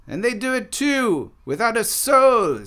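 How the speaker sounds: snickering taunt, pitched high; Buffon. A narrator's reading. Buffon answers about bees without souls, snickering. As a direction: toss it out high and mocking. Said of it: "snickered Bif-, Buffon".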